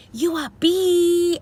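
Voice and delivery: hammed-up furious jab; mock angry yell. Rival yells at the couple, mock angry. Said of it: "She went off and was like".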